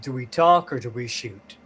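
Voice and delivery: understated cool delivery. Acted. Harry challenges the gunmen from behind a body, coolly. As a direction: say it coolly, keeping composed. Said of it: "coolly, he goes".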